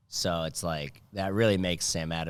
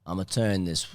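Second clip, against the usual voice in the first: mock Boston accent; 4 dB louder, slower than usual. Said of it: "Boston accent".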